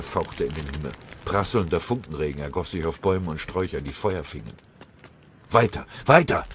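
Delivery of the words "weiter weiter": antreibender Ruf. Acted. Flucht durch den brennenden Wald.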